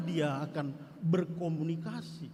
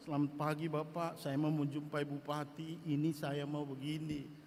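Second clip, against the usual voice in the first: polite request; 6 semitones lower, 6 dB quieter than usual. Shown as a demonstration. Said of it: "jangan langsung-langsung".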